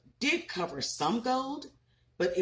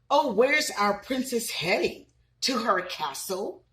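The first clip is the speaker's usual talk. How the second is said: mocking unicorns; 3 semitones higher than usual. Bullying unicorns teasing Sophia about her gold coat, mocking sing-song. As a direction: taunt her like a playground bully. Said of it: "they would laugh and tease her".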